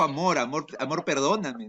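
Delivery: hammed-up apology to a partner; mock pleading lover. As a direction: play a begging boyfriend for a laugh. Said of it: "Una cosa así".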